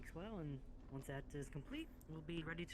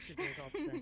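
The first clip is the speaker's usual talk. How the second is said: bright high echo, much louder; excited echo; 12 semitones higher, 7 dB louder than usual. Acted. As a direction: repeat it back with sudden excitement. Echoing partner playfully.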